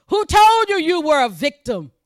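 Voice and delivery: preacher voicing God's challenge to Adam; forceful challenge. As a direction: demand it from the pulpit.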